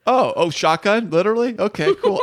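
excited yelp, jumping high in pitch; mock excited. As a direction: squeal it like a kid calling shotgun.

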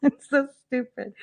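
laughing through the words. Real, not acted. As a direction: giggle it out, can't hold it in. Laughing at the dumb post.

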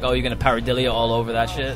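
put-on quick, casual Long Island accent in a joking quote. Artist quoting himself to the hosts, Long Island accent. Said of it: "It's your New York accent".

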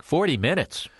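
high, rising disbelief on FORTY MINUTES; incredulous echo. Acted. Anxious passenger echoing the pilot's forty minutes, incredulous. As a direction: repeat "forty minutes" as a startled question.

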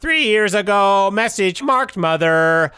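robot voice. Acted. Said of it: "Robot Tim".

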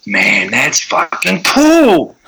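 slow, high, lazy impressed drawl; lightly voiced friend, slow and high; a hint of a laid-back buddy; mock impressed friend. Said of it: "every single person said".

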